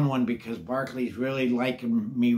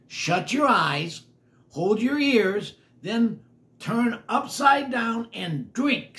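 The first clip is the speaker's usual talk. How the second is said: slow instructing voice; 7 semitones higher, 3 dB louder, slower than usual. Acted. Mac instructs slowly.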